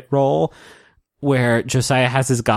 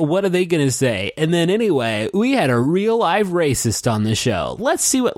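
higher-pitched pretend TV intro; mock show host; 5 semitones higher than usual. Imagining the reunion's opening, mock host voice. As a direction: parody a host teasing the drama. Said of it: "imagine if they open it up like".

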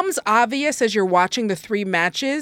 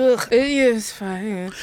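drawn-out groan of reluctance; grudging approval; slower than usual. Pretend. Co-host asked if the matches varied enough, grudging groan. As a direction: drag it out, slow and unimpressed. Grudging verdict, later repeated plainly.

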